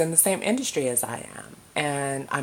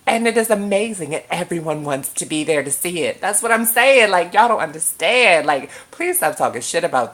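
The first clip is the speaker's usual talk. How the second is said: excited; 5 dB louder than usual. Real, not acted. Passionate defense of the show.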